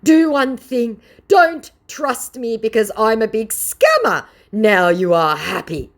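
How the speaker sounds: high, loud put-on scammer voice; mock scammer voice. Vlogger mimicking the scammer's reply, high and loud. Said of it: "the scammer responds".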